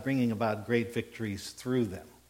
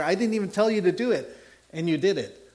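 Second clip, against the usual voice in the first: emphatic; 6 semitones higher, 5 dB louder, faster than usual. Retold or imitated. David refusing the water.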